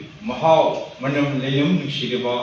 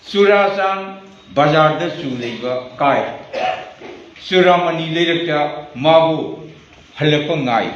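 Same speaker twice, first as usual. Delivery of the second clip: slow, firmly declaimed verse; deliberate, emphatic poetry reading; poem recitation. Acted. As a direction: recite with weighty pauses between short phrases.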